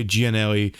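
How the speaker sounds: "Gianelli" with a separate ee after the J, jee-a-NEL-ee; pronunciation variant. Shown as a demonstration. Showing friends one way to say his name, "Gianelli" as jee-a-NEL-ee. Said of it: "many ways you can say my name".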